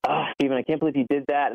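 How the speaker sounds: lightly voiced sassy reproach; mock sassy. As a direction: tease like a sassy wife. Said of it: "with this sassy tone".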